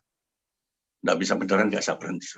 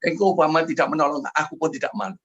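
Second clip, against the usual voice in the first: impassioned declaration; 7 semitones higher, 4 dB louder than usual. Retold or imitated. Preacher's impassioned declaration to God.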